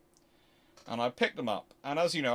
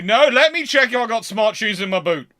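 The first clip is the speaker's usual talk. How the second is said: insistent; 5 semitones higher, 11 dB louder than usual. Retold or imitated. Insists on checking his shoes.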